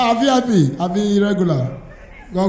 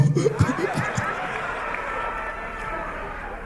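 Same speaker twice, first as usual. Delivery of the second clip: crowd laughter; 10 dB quieter than usual. Real, not acted. Audience laughs at stand-up joke.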